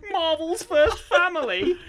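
gruff tinny action figure voice; Ned Newbury action figure. Retold or imitated. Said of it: "That's one of his voice lines".

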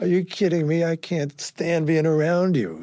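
acted exasperated retort; exasperated refusal. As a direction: throw the offer back, exasperated. Acted refusal of drunk manager's offer.

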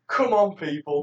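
slow exasperated Obama voice; weary presidential plea; Obama impression. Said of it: "come out and actually say".

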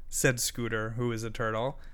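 usual speaking voice

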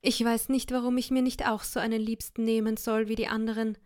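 high, wailing self-pity; wife pretending to cry to husband; fake weeping lament. A narrator's reading. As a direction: wail her misery, pitch up. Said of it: "fing sie an zu weinen".

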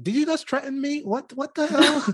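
high, laughing mock alarm; amazed giggle at the threatening sound; laughing shock. Real, not acted. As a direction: play being spooked, cracking up. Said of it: "That sounded so threatening".

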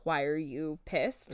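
slow, low and soft mock calm; totally calm. Imitating a man who flips from screaming to calm, slow soft voice. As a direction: ask it slowly, suddenly unbothered. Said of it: "totally calm and being like".

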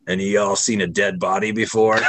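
lightly gruff, gravelly retelling; a hint of a rough gravelly drifter. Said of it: "like, gravelly voice is like".

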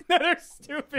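high, slow mocking little-kid voice. Friend mocks the tomato hater's answer, childish high voice. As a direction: mimic a sulky child, drawn out and high. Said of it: "What a little kid answer".

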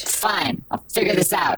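sulky whisper. Acted. Moth boy sulking.

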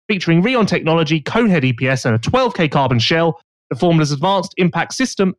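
polished sponsor read. Acted. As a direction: read it like an advert. Reads a sponsor ad.

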